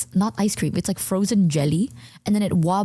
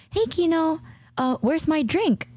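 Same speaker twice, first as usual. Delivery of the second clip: pointed demand; 8 semitones higher, slower than usual. Retold or imitated. Asking roommate for promised drink.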